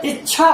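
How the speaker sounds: इच्छा said as "ich-chha"; इच्छा with doubled, aspirated ch; demonstrated pronunciation. Shown as a demonstration. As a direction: hold the च before the छ in इच्छा. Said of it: "इस तरह होता है".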